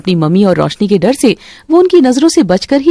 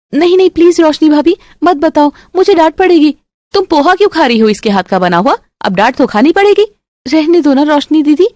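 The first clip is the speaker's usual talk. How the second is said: put-on higher, pleading young voices; begging and taunting girls; 6 semitones higher than usual. Isha begging Roshni not to tell, higher and pleading. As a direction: beg not to be told on.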